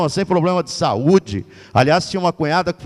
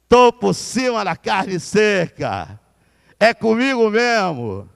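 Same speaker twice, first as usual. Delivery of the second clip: rising hammed-up self-hype, higher and slowing; a proud announcer crowing about himself, higher and slow; mock euphoric boast; 5 semitones higher, slower than usual. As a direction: puff yourself up like a plane taking off. Euphoric self-hype, retold inner voice.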